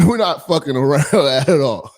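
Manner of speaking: laughing. Real, not acted. Laughing hype.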